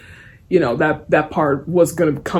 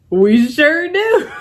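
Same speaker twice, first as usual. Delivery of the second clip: slow, higher sneering doll voice, drawn out; sneering evil Chucky; 10 semitones higher, 4 dB louder, much slower than usual. Retold or imitated. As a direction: drag it out like an evil doll turning its head. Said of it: "like, all sneering evil".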